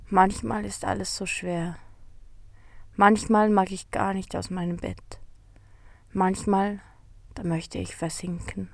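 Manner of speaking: soft, sighing sadness, fading away; sighing sadly. Acted. The sad beetle confides in the narrator, sighing softly. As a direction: let it sink on a sigh. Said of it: "seufzt er".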